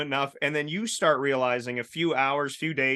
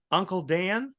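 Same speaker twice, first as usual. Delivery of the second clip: put-on higher-pitched little boy calling, questioning rise; 5 semitones higher than usual. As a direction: imitate a small child calling out. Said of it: "I just hear this little voice go".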